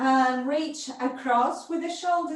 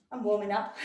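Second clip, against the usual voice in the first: laughing; 2 semitones lower, 5 dB quieter, much faster than usual. Real, not acted. Teacher laughs at herself mid-class.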